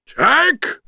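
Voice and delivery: very high cry of surprise; startled shout. A narrator's reading. Villain seeing his rival alive, shocked shout. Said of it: "shouted Oogie Boogie".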